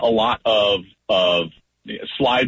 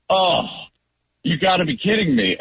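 exasperated outburst; 5 semitones higher than usual. Retold or imitated. Quarterback reacting to his lineman's check call, exasperated mock yell. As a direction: throw up your hands at the line, half-yelled. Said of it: "And I would be like".

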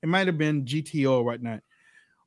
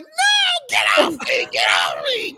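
mock yell; 4 dB louder than usual. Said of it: "She's yelling".

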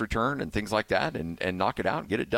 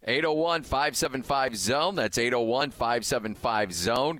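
higher, eager number repeat; radio contest promo; 4 semitones higher, slower than usual. Acted. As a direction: sell the call-in line with energy. Host repeats call-in number.

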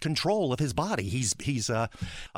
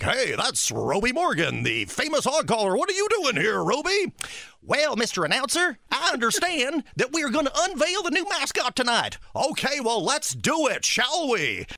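announcer; 12 semitones higher, 3 dB louder than usual. Retold or imitated. Announcer scripted back and forth.

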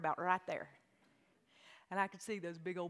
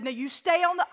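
higher, louder mom warning; stern warning; 7 semitones higher, 11 dB louder than usual. Retold or imitated. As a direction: call out a warning to a child. Mother warning child.

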